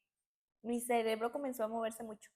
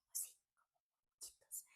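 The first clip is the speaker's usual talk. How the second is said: barely audible whispered mumble; murmuring to herself; 17 dB quieter, slower than usual. Shown as a demonstration. Showing how grandmother talked to herself, whispered murmuring. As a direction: imitate someone whispering privately under their breath. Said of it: "era como que se murmuraba para ella".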